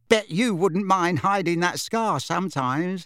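a hint of a playful young witch; lightly voiced teasing witch. Witch teasing Harry about his scar, lightly playful.

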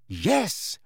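"Yes" with a strong swoop up in pitch; emphatic. A narrator's reading. Harry confirms Arthur is hurt, "Yes" said emphatically. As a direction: stress "Yes" with a big pitch movement. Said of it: "said Harry emphatically".

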